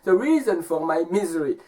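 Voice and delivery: high, emphatic storybook man; man answering. Acted. Man explaining his risky journey to the wolf, high and insistent. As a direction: voice an insistent man, pitch starting high and settling. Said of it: "And the man says".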